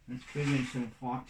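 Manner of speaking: talking round a paintbrush in the mouth. Real, not acted. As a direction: brush held in teeth, mumbling. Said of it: "I can't talk with a paintbrush in my mouth".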